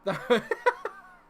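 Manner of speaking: high, loud burst of laughter; relieved laugh. Real, not acted. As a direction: laugh out the stress. Relieved after the goal.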